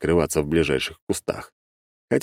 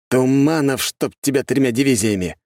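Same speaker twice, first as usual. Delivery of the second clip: exclaiming; 7 semitones higher than usual. Acted. Realization curse.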